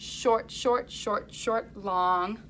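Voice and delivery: four clipped beats, then a held long; short short short short long. Shown as a demonstration. Teacher modelling the second rhythm line. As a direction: hold the last one long. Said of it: "second line sounds like this".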